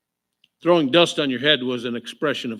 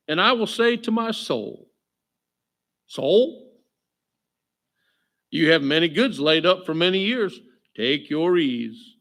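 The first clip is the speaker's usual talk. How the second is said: scripture reading. Acted. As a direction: tell the parable with weight. Reading a parable aloud.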